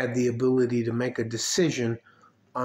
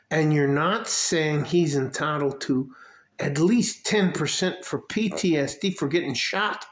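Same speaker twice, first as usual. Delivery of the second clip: retold argument with raters; 5 semitones higher than usual. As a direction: start measured, then blow up at the raters. Acted quarrel with VA raters.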